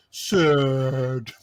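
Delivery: mock three-year-old "sad"; toddler saying sad. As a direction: say it like a little boy naming a face. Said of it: "He goes".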